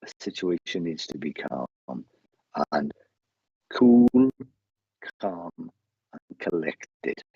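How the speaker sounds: cool, collected and spaced out; calming. Retold or imitated. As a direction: let each word settle, with long pauses. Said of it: "He's just calmed me down".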